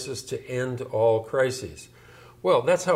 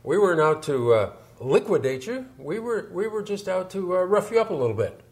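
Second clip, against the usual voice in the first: put-on light Boston accent, slightly louder; 4 semitones higher, 3 dB louder than usual. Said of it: "he'd do it in a Boston accent".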